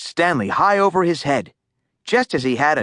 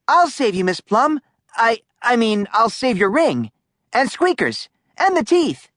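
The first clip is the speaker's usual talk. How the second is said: put-on heroic boy; 9 semitones higher than usual. A narrator's reading. Stanley bravely volunteers.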